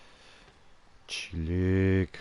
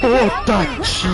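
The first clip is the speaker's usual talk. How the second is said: startled; 12 dB louder than usual. Real, not acted. Jump scare reaction.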